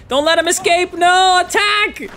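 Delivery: high, loud, stretched yell; frantic orders. Real, not acted. Gamer yelling commands at his troops. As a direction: scream the orders at the units.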